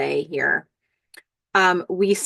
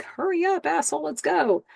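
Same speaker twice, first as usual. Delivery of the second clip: high-pitched imitated impatience; mock angry; 9 semitones higher than usual. Man outside the phone booth rushes Billy, angry. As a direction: hurry someone along in a mock-angry high voice. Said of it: "He was really angry a second ago".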